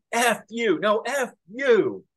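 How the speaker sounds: high, drawn-out New York shouting match; imitated New York street-argument accent; thick New York accent. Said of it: "in this thick New York accent".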